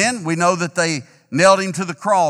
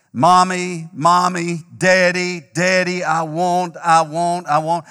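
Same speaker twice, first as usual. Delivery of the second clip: put-on whiny child; 2 semitones higher, 4 dB louder, slower than usual. Preacher voices a whining child.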